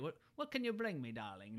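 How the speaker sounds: lightly voiced grand diva, pitch falling on darling; retold quote with a touch of character; imitated Edna voice. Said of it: "the great voice".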